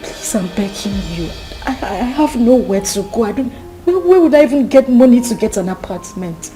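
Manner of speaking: loud, frantic begging; desperate pleading. Acted. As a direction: beg her with everything you have. Pregnant girl begging not to marry.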